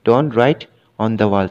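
very slow, word by word; slow dictation. Shown as a demonstration. Teacher slowly dictating an example sentence to students, very slow. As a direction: spell each word out slowly for the class.

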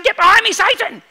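high, loud rebuke; Jesus rebuking Peter, loud and high; stern rebuke. Retold or imitated. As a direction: cast it off sharply like a command. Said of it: "Jesus is saying".

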